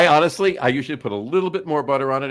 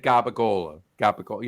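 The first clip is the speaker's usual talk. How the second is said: gabagola with a light Italian accent; gabagola, lightly Italian-accented; slight Italian accent; 2 semitones lower than usual. Shown as a demonstration. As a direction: say gabagola with just a touch of Italian lilt. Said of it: "had a little bit of an accent to it".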